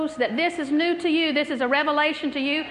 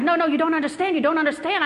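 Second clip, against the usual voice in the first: higher, agitated protest in her voice; mock urgent insistence; 4 semitones higher than usual. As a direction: imitate someone desperate to be understood. Acts out woman insisting, amazed.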